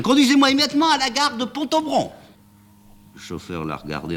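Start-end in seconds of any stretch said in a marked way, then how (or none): 0.0-2.1 much higher, urgent cry. A narrator's reading. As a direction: shout the order while diving into the cab. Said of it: "en criant".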